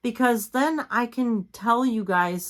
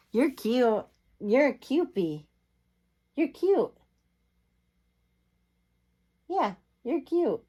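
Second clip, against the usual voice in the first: cooing at pet; 6 semitones higher than usual. Real, not acted. Owner gushing to her cat, high cooing baby talk. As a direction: gush over the cat in a tiny high voice.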